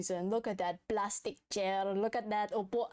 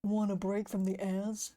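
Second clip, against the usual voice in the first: ad announcer voice; 2 semitones lower than usual. Retold or imitated. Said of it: "You sound like".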